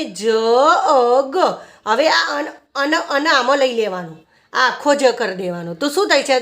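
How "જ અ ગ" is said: "જ અ ગ" in separated phonic sounds; sounding out. Shown as a demonstration. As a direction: pause between the sounds of "જ અ ગ". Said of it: "શું વંચાય આને?".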